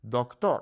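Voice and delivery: Doctor as one joined word, dok-tor; Spanish "Doctor" with pure o sounds; Spanish pronunciation. Shown as a demonstration. Teacher models natural emphasis, Spanish Doctor. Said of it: "So it's not doctor".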